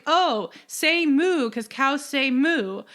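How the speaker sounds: slow, dopey mock request to a cow; Duke talking to a cow. Podcaster retelling Duke's line to the cow, lightly acted. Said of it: "and he's like".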